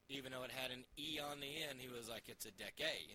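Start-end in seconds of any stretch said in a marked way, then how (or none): 2.3-3.1 Adeke, ending on a hard ay sound; player's pronunciation. Retold or imitated. Host retells how the player says Adeke, hard ay ending. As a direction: quote the player, hitting the final ay of Adeke. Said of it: "you hit the A hard on the end".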